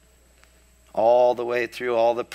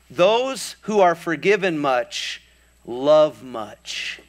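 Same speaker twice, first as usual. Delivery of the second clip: solemn, slow words; 4 semitones higher, 3 dB louder, slower than usual. Retold or imitated. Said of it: "he says something profound".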